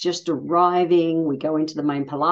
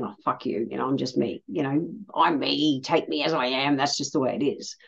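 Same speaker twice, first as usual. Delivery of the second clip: defiant inner thought; 2 semitones lower, 5 dB quieter than usual. Retold or imitated. Past self to herself, quietly defiant. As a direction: grumble it under your breath. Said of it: "I'm just thinking".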